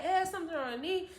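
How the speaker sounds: rising panic, asking pregnant; imitating a panicked mom; alarmed mom. Mom on phone to stepdad.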